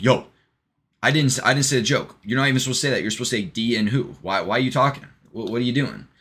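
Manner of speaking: loud, high, mock-outraged objection; retold yelling. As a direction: act out an exasperated joke-teller cut off. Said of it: "and then he starts yelling".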